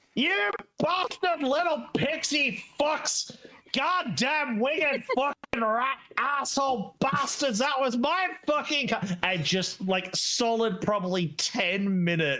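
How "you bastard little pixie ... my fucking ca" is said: all-out furious, high-pitched cursing dwarf voice. Voicing a dwarf cursing pixies after a deep breath: furious ranting dwarf tirade. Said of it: "red-faced, spittle flying Dwarvish tirade".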